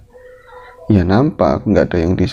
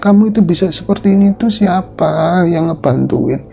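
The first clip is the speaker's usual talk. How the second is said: Nyi Suti reproaching; 9 semitones higher than usual. Acted. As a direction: remind her who helped her. Suti rebukes Ratmi.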